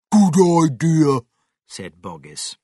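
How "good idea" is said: loud, raised, keen approval; eager agreement. Acted. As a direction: agree heartily and loudly.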